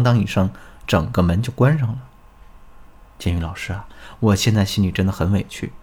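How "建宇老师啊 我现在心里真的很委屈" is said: low, subdued acted complaint; aggrieved. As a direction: confide the hurt quietly, as the student. (模仿学员委屈地倾诉)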